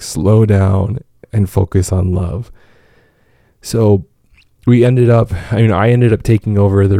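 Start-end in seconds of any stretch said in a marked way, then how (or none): 0.0-2.5 gentle reminder. Retold or imitated. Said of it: "remind each other, like".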